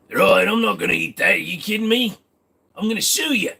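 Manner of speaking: indignant skit reply. Acted. Streamer answers his own tea offer, mock indignant.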